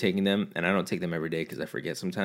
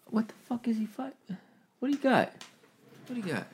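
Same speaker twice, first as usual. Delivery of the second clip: pet talk; 4 dB quieter than usual. Real, not acted. Talking to his cat Hoodie in a high pet voice.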